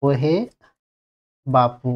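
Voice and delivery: বাপু drawn out; বাপু held long; stretched বাপু. Shown as a demonstration. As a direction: lengthen the উ of বাপু. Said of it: "এই বাপুটাকে যখন আমরা টানছি".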